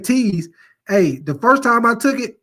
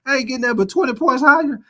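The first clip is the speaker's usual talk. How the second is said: put-on pissed-off teen self; 6 semitones higher than usual. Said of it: "your boy was pissed off".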